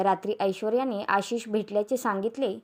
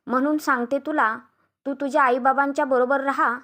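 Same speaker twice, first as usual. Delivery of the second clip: mildly heated retort, higher pitch; उलट उत्तर; 4 semitones higher, 4 dB louder than usual. Acted. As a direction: argue back at your sister-in-law. वहिनी नणंदेला उलट उत्तर देते. (थोड्या रागात उलट उत्तर)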